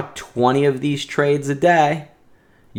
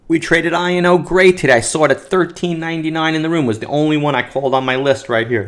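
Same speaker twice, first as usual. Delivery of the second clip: fast, wired, buzzing with energy; too much caffeine; 5 semitones higher, faster than usual. Real, not acted. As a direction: talk like you're jittery and amped. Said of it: "Had, like, nine cups of coffee today".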